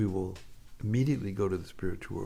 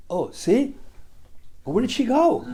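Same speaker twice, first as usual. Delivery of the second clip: high, loud, laughing through the words; laughing tease; 13 semitones higher, 5 dB louder than usual. Retold or imitated. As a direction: tease him while cracking up. Radharani teasing Krishna, laughing.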